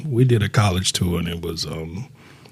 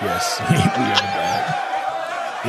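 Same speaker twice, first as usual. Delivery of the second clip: laughing; much slower than usual. Real, not acted. Laughing at their own return.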